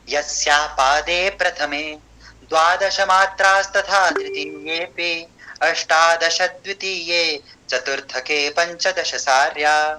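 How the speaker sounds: slow, measured Sanskrit recitation; slow chanted Sanskrit verse; metrical recitation. Shown as a demonstration. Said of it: "कैसे पढ़ना है".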